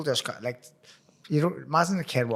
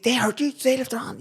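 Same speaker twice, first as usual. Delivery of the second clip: retold alarm; 12 semitones higher, 5 dB louder than usual. Retells dad's angry alarm at police.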